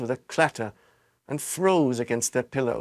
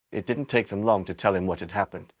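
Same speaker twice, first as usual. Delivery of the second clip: ordinary delivery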